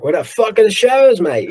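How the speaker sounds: imitating an Australian fan with a half-British accent; mock Aussie accent. Australian fans online demand shows, in a mock Australian accent. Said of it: "more of a British accent than, uh, Australian".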